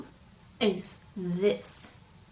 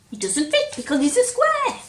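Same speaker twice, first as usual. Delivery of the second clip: dramatic reveal; 9 semitones higher, 9 dB louder than usual. A narrator's reading.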